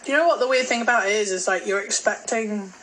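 talking through a mouthful; chewing while speaking; mouth full. Real, not acted. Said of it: "sorry, I'm talking with a mouthful".

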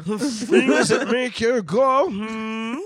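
high, loud words through laughter; laughing. Real, not acted. Cracking up at the guest commentary, laughing hard. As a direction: giggle your way through the catchphrase.

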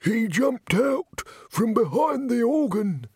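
high, drawn-out, dramatic account; high-pitched frightened witness; agitated victim. A narrator's reading. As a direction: relive the attack for the crowd. Victim recounts the attack.

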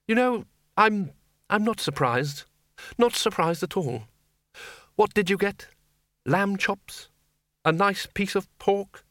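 high-pitched strained patience; exasperated senior wizard. Acted. Wizard chief to bursar, exasperated sarcasm.

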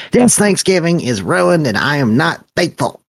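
high, dramatic holiday tantrum; hammed-up fit of indignation; mock outrage. Acting out own Thanksgiving tantrum.

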